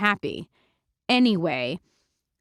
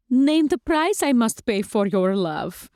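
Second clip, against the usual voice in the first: vampire bride Lulu; 3 semitones higher, slower than usual. Acted. Lulu proposing on her knees.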